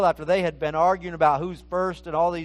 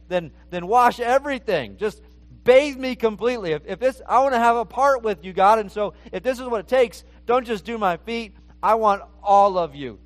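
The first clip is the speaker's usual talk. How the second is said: higher, louder, quicker rush of pleading; Peter's eager plea; 4 semitones higher, 5 dB louder than usual. Acted. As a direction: beg him to wash everything, all in. Peter begging to be washed.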